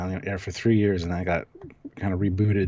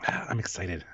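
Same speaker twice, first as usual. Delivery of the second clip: mock enthusiasm; 3 semitones lower, 7 dB quieter, slower than usual. Feigned excitement after a sigh.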